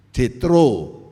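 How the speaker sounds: "Jetro" said clearly with a J as in John; correct name. Shown as a demonstration. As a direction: stress the proper "Jetro", not Jiu. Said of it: "Jetro jangan diganti Jiu".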